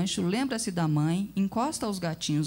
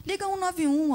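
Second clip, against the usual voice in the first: urgent suggestion; 11 semitones higher, 3 dB louder than usual. Acted. Neighbour urging emergency call.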